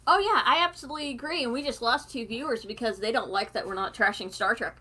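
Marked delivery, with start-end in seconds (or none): 0.1-1.4 whispering. Real, not acted. Quick aside to camera.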